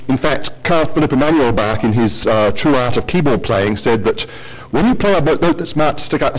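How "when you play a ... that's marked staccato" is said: put-on a half-hearted German accent on 'when you play a note'; failed German accent. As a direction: attempt a German accent, then give up on it. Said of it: "sorry, I can't do a German accent".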